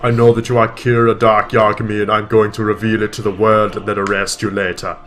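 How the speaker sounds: a lightly voiced stranger speaking through her; strange voice. Light's mum possessed by L, speaking in a strange voice. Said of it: "in a strange voice that was not hers".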